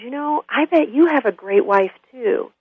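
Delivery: put-on slightly high, slow, friendly old man; lightly voiced old man being best buds; chummy old man. Old man keeps befriending the drunk, chummy slow delivery. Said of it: "like they're best of buds".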